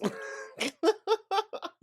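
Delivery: loud, high cackling laugh; real laughter. Real, not acted. Laughing at her own gas remark, loud high laughter. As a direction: burst into high, loud giggles.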